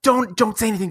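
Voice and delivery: lightly voiced anxious sister pleading; a touch of a worried mom's urgent plea; hushed plea. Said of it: "my sister would be like".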